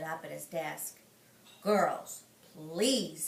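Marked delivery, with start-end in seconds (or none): 1.6-3.3 teacher voice. Acted. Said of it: "he said".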